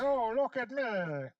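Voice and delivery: hollow, echoey playback; tinny recorded voice; low sample rate. Real, not acted. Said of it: "It sounds a little echoey".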